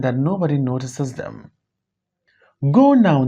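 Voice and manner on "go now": calling out to crowd. Acted. Remy addresses the departing crowd.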